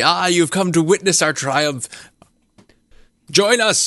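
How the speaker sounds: calling out in a mild yell. Game master voicing Gar Shatterkeel calling out to the players, yelling very loudly. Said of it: "yells out to you very loudly".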